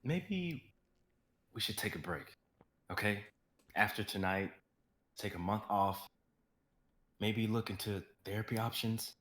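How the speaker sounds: soft, quiet and caring; gentle. Acted. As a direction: speak tenderly to her. Daniel comforting crying Rose.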